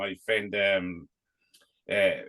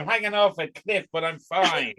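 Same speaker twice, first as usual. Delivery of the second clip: higher, sing-song mock calm; mock breezy; 4 semitones higher than usual. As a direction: play it breezy, as if nothing happened. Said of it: "You were grand".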